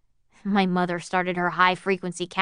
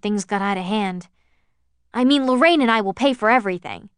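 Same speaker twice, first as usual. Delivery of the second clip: eager apology; 4 dB louder than usual. Acted. Anxious apology over phone.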